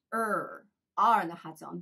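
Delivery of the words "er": "er" held with puckered lips. Shown as a demonstration. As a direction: make a long, rounded "er" without the tongue touching. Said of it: "ちょっと口をつぼめて". (口をつぼめて「er」と発音)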